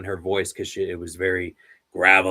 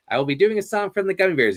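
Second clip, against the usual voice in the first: announcing; 9 semitones higher, 3 dB louder, much faster than usual. Retold or imitated. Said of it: "he goes".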